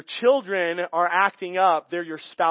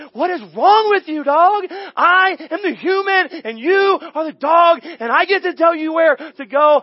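much higher, louder mock yell at the dog; inner exasperated yell; 9 semitones higher, 9 dB louder than usual. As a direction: blow up at the dog, all in your head. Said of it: "that was what was happening in my head".

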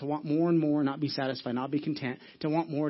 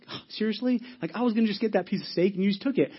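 mildly exasperated, pitched up a little; retold frustration; 4 semitones higher than usual. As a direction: act out mild indignation at being beaten to it. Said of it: "I'm getting frustrated and angry".

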